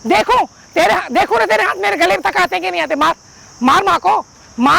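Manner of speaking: defiant dare. Acted. Mother dares son to hit.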